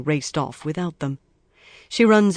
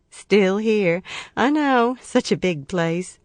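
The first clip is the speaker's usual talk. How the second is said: lightly voiced cheerful woman; 4 semitones higher, 3 dB louder, slower than usual. A narrator's reading. Woman chatting, laughing after.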